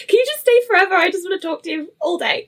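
high-pitched gushing plea, easing down; playful pleading. Retold or imitated. Podcast host to British guests she wants to keep, playfully pleading. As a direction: beg eagerly, half joking.

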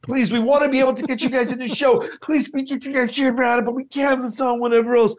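high, frantic director pleading; Dan. Retold or imitated. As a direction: play the panicking director. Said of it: "I do a very good Dan".

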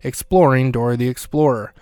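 lightly projected sponsor read; podcast ad read. Acted. Host plugging a history podcast for the sponsor break, ad read.

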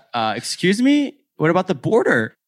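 retold disbelief. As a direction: act stunned and confused. Shocked she's already in Uganda.

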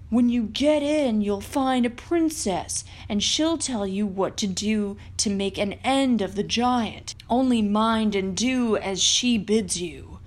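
lightly voiced helpful wolf, guiding; a hint of a wise old wolf showing the way.

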